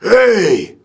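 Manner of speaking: thinner mock yell without the gut behind it; a half-hearted copy of the shout; weak imitation shout. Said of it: "He's like".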